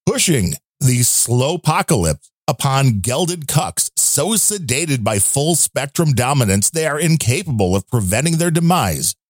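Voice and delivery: deliberate, lightly theatrical read in short phrases; restrained character read, weighing each phrase; subdued character voice. Acted. Host reads listener's rant in subdued character voice. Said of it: "he likes the more subdued voice".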